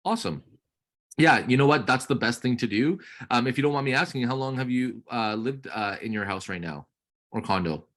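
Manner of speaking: bright, friendly sales chat; upbeat realtor on call. Acted. Coach playing realtor to trainee's lead, upbeat. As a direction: keep the lead talking warmly.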